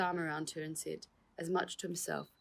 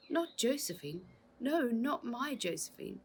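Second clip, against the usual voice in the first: whispered; 8 semitones higher than usual. Acted. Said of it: "he whispered".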